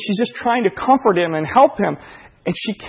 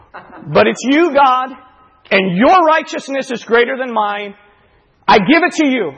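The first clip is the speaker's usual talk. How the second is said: praying; 2 semitones higher, 3 dB louder than usual. Retold or imitated. Father retelling his prayer to God, building to fervent surrender. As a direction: start subdued, rise into a loud, resolute surrender. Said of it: "I prayed the prayer".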